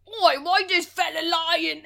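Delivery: slow, hammed-up British heckle; mock British accent. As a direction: imitate a friend's exaggerated British accent. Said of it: "he's doing the fucking accent".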